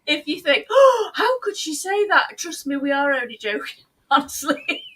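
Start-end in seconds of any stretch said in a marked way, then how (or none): 0.7-2.4 high, loud mock outrage; mock offended viewer. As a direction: play the shocked viewer, hammed up.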